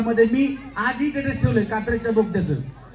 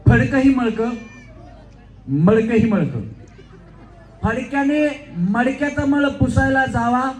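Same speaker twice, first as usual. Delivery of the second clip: comic tongue twister; slower than usual. Shown as a demonstration. Host demos a comic dialogue to the volunteer, brisk and punchy. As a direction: rattle the rag-and-pot line for laughs. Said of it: "comedy dialogue".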